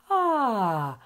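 a descending chest-voice "Ah" slide; demo vocal sigh. Shown as a demonstration. Teacher models the sound for the class. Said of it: "Faz esse som".

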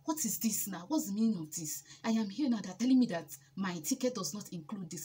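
mock indignant rant at her people back home. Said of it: "I called and I was ranting".

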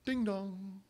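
soft sing-song ding dong; doorbell imitation. Guests arrive mid-argument, softly imitated doorbell chime.

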